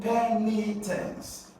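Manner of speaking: penitence drawn out slowly, PEN high and strong; slow PEN-i-tence, falling away after PEN; stress on first syllable. Shown as a demonstration. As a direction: stretch penitence, leaning on the opening PEN. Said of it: "going to stress P E".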